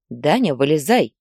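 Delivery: a restrained mother's shout; mild mock call. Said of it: "крикнула сыну Лариса". (мать негромко окликает сына из бассейна)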